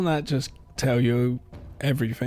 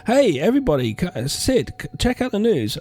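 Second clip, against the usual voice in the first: hammed-up pal bursting in with gossip; mock excited friend; 6 semitones higher than usual. Mock friend barging in with news.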